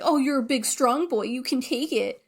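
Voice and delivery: imitating a condescending teacher; patronizing pep talk, mildly acted; mock coaxing. Teacher taunting creature during needle.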